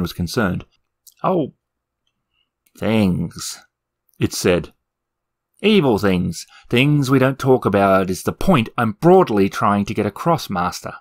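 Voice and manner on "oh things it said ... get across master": nervous demon. Acted. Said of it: "The demon coughed nervously".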